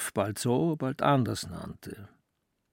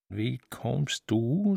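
stuttering; much slower than usual. Acted. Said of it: "stotterte er wenig erfreut".

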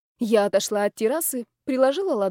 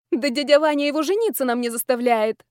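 indignant exclamation; 3 semitones higher, 3 dB louder than usual. Acted. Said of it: "воскликнула я".

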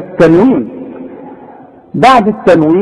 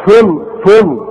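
mock stumbling student. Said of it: "الكل يقول لك ف".

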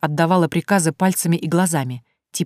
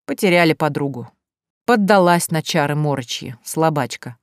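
sighing verdict. Acted. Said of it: "тяжело вздыхая".

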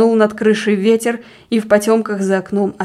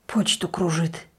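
slow, soft, malicious rasp; spiteful wheeze; 2 semitones lower, 7 dB quieter, slower than usual. A narrator's reading. Deacon eyeing his wife with suspicion, wheezing spitefully. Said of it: "прохрипел он, злобно косясь на жену".

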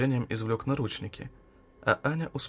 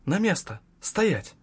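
sharp, higher, barked order; sharp command; 7 semitones higher, 4 dB louder, slower than usual. A narrator's reading. Girl halting the teacher stepping toward her, sharp command. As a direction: stop them dead with a sharp command. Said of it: "резко ответила".

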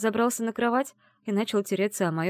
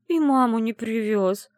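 slow, louder sobbing lament; tearful complaint; 4 semitones higher, 5 dB louder than usual. Acted. Heroine complaining to grandmother, weeping. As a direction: drag it out through tears.

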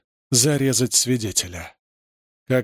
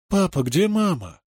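put-on child asking; 5 semitones higher than usual. A narrator's reading. Child voiced in story.

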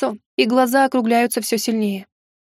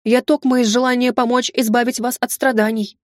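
fervent protest; 2 semitones higher than usual. Acted. Maid hurrying to deny her scheme, fervently. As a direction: protest hotly, all innocence. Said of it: "пылко возразила Ирина".

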